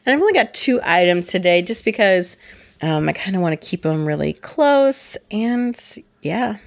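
rough, allergy-worn voice; hoarse voice. Real, not acted. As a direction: speak through a scratchy throat. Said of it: "my voice sounds gross".

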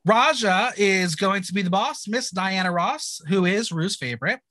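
lightly performed episode-recap narration; measured podcast recap read; scripted recap read. Acted. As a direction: read it out like a recap host, names set apart.

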